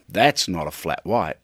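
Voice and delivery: a hint of Dundee, waving it away; Dundee-style scoff. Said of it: "I thought".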